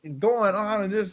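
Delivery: a hint of a cranky sleeper; groggy neighbour. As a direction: play a woken neighbour, annoyed. Woken neighbours complain.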